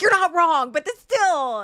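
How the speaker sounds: high and loud, giggling through the words; laughing protest. Retold or imitated. Admitting to her husband he's right, laughing. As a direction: laugh it off while conceding. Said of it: "I was like".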